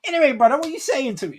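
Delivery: very high, playful matey switch; casual bruv voice. Shown as a demonstration. Worker returning to his friend after a call, matey voice. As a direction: snap back into exaggerated street banter. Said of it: "Then you go back into".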